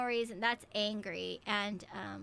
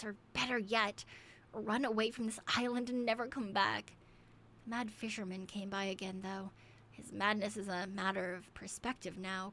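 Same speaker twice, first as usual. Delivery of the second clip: journal reading. A narrator's reading. Reads a journal entry aloud.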